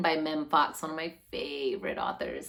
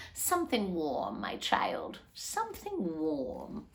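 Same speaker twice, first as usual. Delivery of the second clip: a hint of a gentle old woman; lightly voiced old woman; 3 dB quieter, slower than usual. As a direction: answer tenderly like a grandmother. Old organ player answers child.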